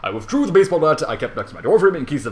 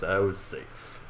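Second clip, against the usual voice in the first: ordinary delivery, nothing marked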